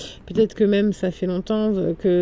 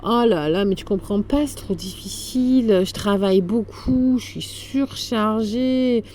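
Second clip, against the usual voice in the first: whiny overwhelmed voice; 3 semitones higher than usual. Retold or imitated. Mimicking overwhelmed person.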